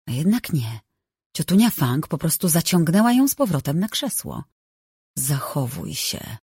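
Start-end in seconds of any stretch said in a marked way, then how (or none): 5.2-6.4 dużo ciszej i wolno, z groźbą; wycedzone przez zęby. Acted. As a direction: syknij przez zaciśnięte zęby. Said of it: "wycedziła przez zaciśnięte zęby". (ciotka cedzi groźbę do Rin, ciszej i wolno)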